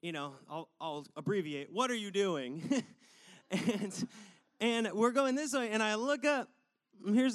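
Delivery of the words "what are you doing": retold yell. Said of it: "someone yells".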